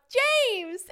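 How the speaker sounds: high, loud drawn-out call. Retold or imitated. Friend off the lift hails James, calling out loudly. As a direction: holler his name across the snow.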